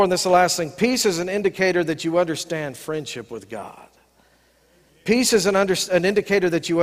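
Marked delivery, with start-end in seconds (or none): 0.7-3.9 hushed breathy whisper with no voice. Shown as a demonstration. Pastor to congregation sharing his key truth, whispered. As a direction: lean in and whisper it like a secret.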